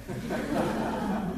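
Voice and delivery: a short real chuckle; light laugh. Real, not acted. Preacher laughing at an unresponsive congregation, short chuckle. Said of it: "皆さん、今日はあんま乗ってきませんね".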